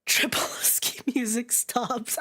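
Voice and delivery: slow whispered aside. Real, not acted. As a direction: murmur it under your breath.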